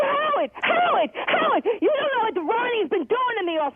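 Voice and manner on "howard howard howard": calling out. Real, not acted. Caller pleading to be heard.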